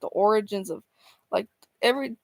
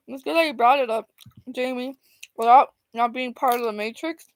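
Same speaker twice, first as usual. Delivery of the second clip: talking while chewing popcorn; munching popcorn. Real, not acted. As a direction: mouth full of popcorn. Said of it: "Sorry, I'm eating popcorn".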